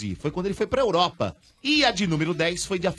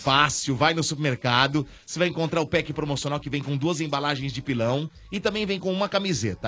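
ad read; 2 semitones lower than usual. Acted. Scripted sponsor pitch.

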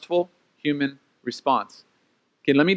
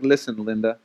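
low, soft, patient put-down; dry, low-voiced talking-to; deadpan reproof; 8 semitones lower, 6 dB quieter than usual. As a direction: bring them down to earth, quietly. Jesus calming a dramatic believer.

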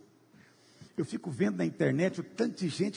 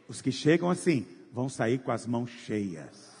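normal talking voice

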